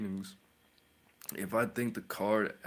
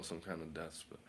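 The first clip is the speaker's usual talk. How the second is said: whisper; 3 semitones lower, 9 dB quieter than usual. Acted. Naming spells, then whispers the darker one.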